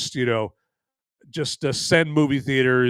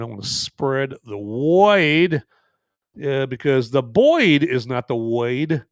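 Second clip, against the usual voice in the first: light cartoon-dad impression, slower drawn-out key words; Peter Griffin; slower than usual. Host quoting a Family Guy bit while setting up, light cartoon impression. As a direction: draw out the odd vowels in a lightly voiced impression. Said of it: "no apologies to Peter Griffin from Family Guy".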